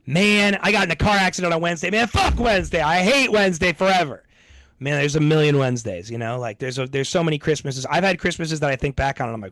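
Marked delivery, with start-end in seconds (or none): 0.1-4.2 hammed-up grudge against a weekday; mock rant. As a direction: whine about Wednesday over the top. Mock rant about Wednesday.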